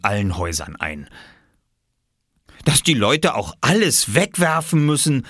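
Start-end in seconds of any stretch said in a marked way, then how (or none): 2.6-5.3 high-pitched mock lament; high whining. A narrator's reading. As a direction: moan like a fussy grown-up, high voice. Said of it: "jammerte Oskar mit hoher Stimme".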